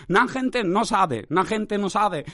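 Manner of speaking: slow "Na gente no sabe" on repeat; repetitive catchphrase. Retold or imitated. Podcaster showing his overused phrase, repetitive refrain. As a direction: say it as a droning refrain. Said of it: "lo conviertes en un motorcito".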